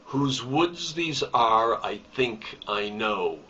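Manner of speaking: slow verse reading, stress on "woods", "are", "think" and "know"; measured iambic reading. Shown as a demonstration. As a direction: read "Whose woods these are, I think I know" in unstressed-stressed pairs. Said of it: "let's listen to it".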